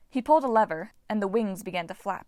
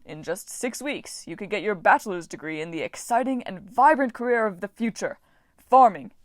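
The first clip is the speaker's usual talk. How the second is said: ad pitch; 4 dB louder than usual. Acted. Mock advertisement pitch.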